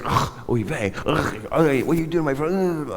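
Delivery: put-on light Yiddish accent, sighing and high. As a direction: do the boss's Yiddish accent with a groan. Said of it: "he was just this Upper East Coast Jewish guy".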